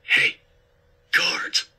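forceful, urgent stage whisper; hissed warning. A narrator's reading. Accomplice warning safecracker of guards, urgent hiss. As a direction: hiss the alarm under your breath. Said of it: "Irving hissed".

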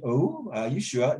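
drawn-out, slow "Oh" of polite doubt; slow, sceptical-sounding query; doubtful reaction. Shown as a demonstration. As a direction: stretch it out, questioning. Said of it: "It might sound a bit".

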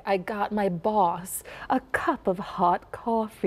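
flat Minnesota vowels, slow and drawn; slow Minnesota coffee with flat ah; Minnesota accent. Shown as a demonstration. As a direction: demo the broad Minnesota ah. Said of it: "where it's that ah, ah, ah".

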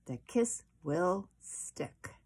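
slow, tender reassurance; slow promise. Acted. Mother promising Chester the kiss will stay, slow and tender. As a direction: stretch it out to reassure.

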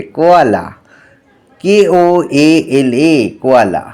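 put-on teacher reading vocabulary to children; spelling lesson for kids.

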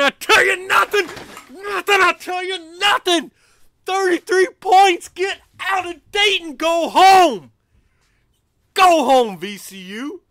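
high, loud trash talk shouted at VCU; gloating taunt. Real, not acted. Fan taunting VCU players after a blowout, gloating yells. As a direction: yell taunts at the losing team. Taunting rival team while watching win.

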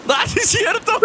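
high giggly voice; laughing while talking. Real, not acted. Laughing at Kevin curled up.

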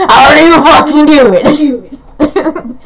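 slow, laughing disbelief. Real, not acted. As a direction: say it while cracking up. Laughing repeat.

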